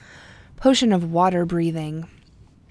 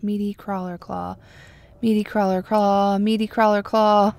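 tongue twister; 4 dB louder than usual. Shown as a demonstration. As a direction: repeat it, each time louder. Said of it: "Try and say that, like, five times fast".

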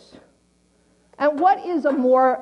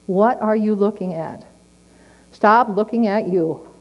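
tender God. Retold or imitated. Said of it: "God will say".

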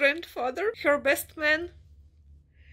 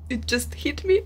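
emphatic. Real, not acted.

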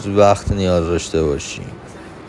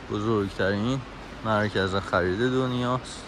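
measured, softer informational voice-over; voice-over narration; 2 semitones higher, 8 dB quieter than usual. Acted. Narrator introducing Iran Mall to vlog viewers, measured and soft. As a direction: narrate quietly, pausing between phrases.

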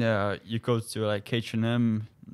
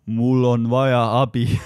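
louder careful Estonian; loud earnest plea; 8 dB louder than usual. Retold or imitated. Ivan asking the sergeant for help, louder. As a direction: blurt it out proudly. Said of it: "He gave like this".

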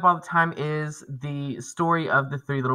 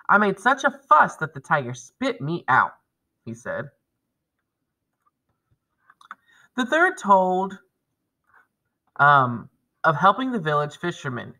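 lively read-aloud voice for the class; story read aloud. Acted. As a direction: tell the tale to the kids, storybook style. Teacher reads folktale aloud.

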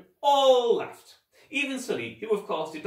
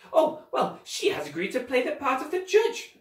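high-pitched, airy theatrical explanation; put-on villainous nonchalance; breezy scheming villain; 12 semitones higher than usual. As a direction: brush off the question grandly.

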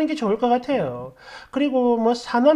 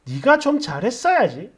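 mild mock reproach with a questioning rise; disapproving quote. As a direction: quote it back critically, lifting the end. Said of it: "이거 뭐야?".

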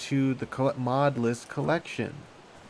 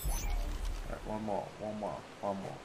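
nodding off; 4 dB quieter than usual. Real, not acted. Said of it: "I'm dozing off".

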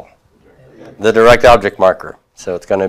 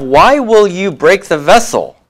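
the sentence Why will you break the vessel? read out a touch higher; reading the exercise sentence a little higher; 8 semitones higher than usual. Shown as a demonstration. Teacher reading exercise eight aloud, a bit higher. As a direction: present the exercise line brightly. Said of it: "Number eight, we have".

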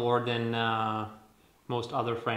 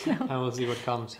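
laughing; 3 dB louder than usual. Real, not acted. Playful end to their story.

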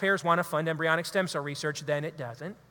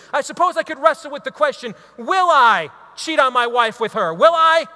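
rising self-struggle; 4 semitones higher, 6 dB louder than usual. Acted. Wrestling with temptation aloud.

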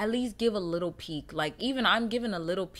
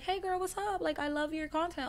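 chill fan greeting; 10 semitones higher, 3 dB quieter than usual. Retold or imitated. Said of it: "Just be like".

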